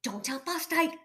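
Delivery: high, anxious little plea; fussing. A narrator's reading. Fred hiding failure from Fosdyke, fussing. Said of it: "fussed Fred".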